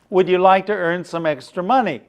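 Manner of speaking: fast, panting delivery; out of breath. Shown as a demonstration. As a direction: rush the words out of breath. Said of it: "and he's panting".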